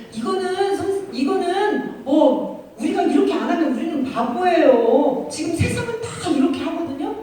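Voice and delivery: worldly excuse-maker. Retold or imitated. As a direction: imitate someone pleading that everyone does it. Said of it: "이렇게 말해요". (세상 사람 흉내로 길게 끌며 변명하는 말투)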